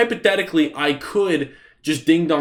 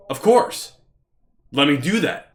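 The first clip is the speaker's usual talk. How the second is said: sarcastic reply. Retold or imitated. Rebellious kid mocking old neighbor.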